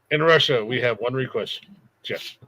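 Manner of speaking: light put-on Russian accent; joking Russian villain line. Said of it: "in a Russian accent".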